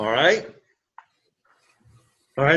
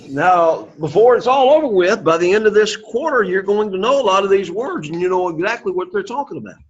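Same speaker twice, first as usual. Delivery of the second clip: rousing promise; 4 semitones higher than usual. Real, not acted. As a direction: build them up with energy. Teacher promising progress.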